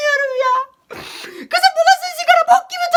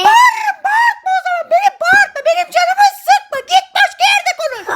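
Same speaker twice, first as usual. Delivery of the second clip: angry yelling; 4 semitones higher than usual. Acted. Girl yells at the classmate mocking her. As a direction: threaten her to back off.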